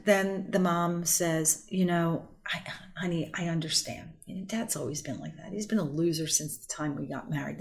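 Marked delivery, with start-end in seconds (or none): 1.7-7.6 soft, hushed and sympathetic; soothing mom. Retold or imitated. Mother to child on the phone, softly consoling. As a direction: coo it like a mother siding with her child.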